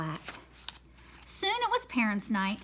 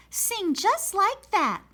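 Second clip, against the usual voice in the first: excited teacher; 10 semitones higher, 5 dB louder than usual. Acted. Teacher praising the flat note.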